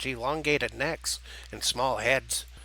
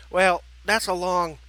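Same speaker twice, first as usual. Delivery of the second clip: high, loud, slow character voice; red turkey character; 5 semitones higher, 6 dB louder, slower than usual. Acted. Red turkey beginning to answer the girl, drawn-out. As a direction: start a drawn-out explanation, pitched up.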